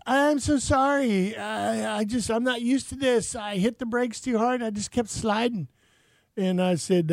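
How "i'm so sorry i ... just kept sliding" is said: lightly voiced flustered woman, higher and slow at first; a hint of a sorry driver; woman apologizing. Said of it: "she comes out and she goes".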